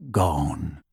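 low soft croak; croaky house elf. A narrator's reading. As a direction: say it with eyes shut, bleak.

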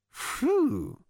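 high, drawn-out phew of awe; impressed phew. A narrator's reading. Zaphod takes in how bad it is, impressed. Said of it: "much impressed".

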